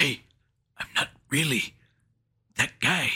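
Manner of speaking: lightly voiced mock actor; put-on celebrity protest; Dave Bautista. Mocking an actor for his friend, put-on voice. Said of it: "doing your Dave Bautista voice".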